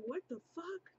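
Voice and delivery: high squeaky mock-shocked audience; hammed-up high disbelief; audience reaction. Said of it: "y'all probably like".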